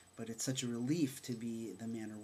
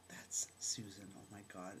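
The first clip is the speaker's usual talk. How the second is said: whispering; 3 semitones lower, 5 dB quieter than usual. Retold or imitated. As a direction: whisper it in shock. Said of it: "And I'm like".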